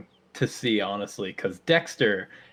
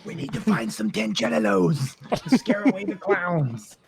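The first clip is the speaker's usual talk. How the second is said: dumb Billy voice; 9 semitones higher than usual. Acted.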